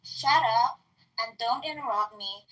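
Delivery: heated retort. Real, not acted. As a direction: snap back fast and hot. Heated retort in shouting match.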